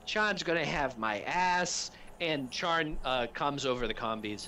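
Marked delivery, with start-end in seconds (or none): 0.1-1.9 lumberjack voice. Acted. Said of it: "nods and goes".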